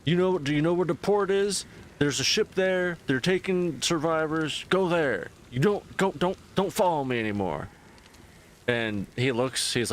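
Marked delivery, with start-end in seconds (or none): 0.0-7.7 exasperated brush-off. Retold or imitated. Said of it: "And she's like".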